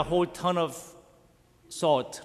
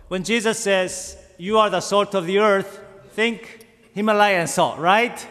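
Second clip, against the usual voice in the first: emphatic preaching; 5 semitones higher, 8 dB louder than usual. Real, not acted. Preacher driving home the point.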